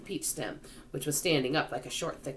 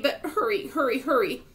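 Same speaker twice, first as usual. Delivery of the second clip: high, urgent repetition; anxious, high-pitched; frantic urging; 11 semitones higher, 5 dB louder than usual. A narrator's reading. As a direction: hurry him along in a panic. Centipede frantically hurries James.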